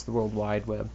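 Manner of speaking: World Wide Web with Wide given the weight; stress on Wide. Shown as a demonstration. Podcaster explaining it really is wide, stress on Wide. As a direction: make Wide the strong word. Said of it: "it really is wide".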